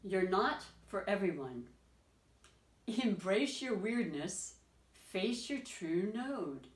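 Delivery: slow, emphatic oracle card reading; deliberate, spaced-out reading of a message; card reading aloud. Acted. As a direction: read each phrase out deliberately, stretching the words.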